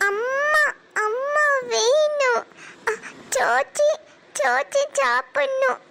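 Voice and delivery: put-on a child sniffling and begging between sobs; tearful whining. Hungry little girl begging her father for mother, tearfully whining.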